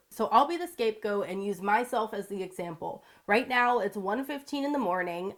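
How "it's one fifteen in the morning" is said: stuffy sick voice; congested. Real, not acted. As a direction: talk through a blocked nose. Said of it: "you might be able to tell in my voice, I'm sort of congested".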